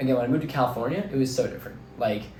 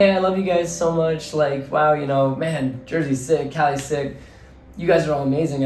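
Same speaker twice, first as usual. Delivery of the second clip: gushing farewell; 3 semitones higher, 4 dB louder than usual. Retold or imitated. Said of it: "mock farewell to friends".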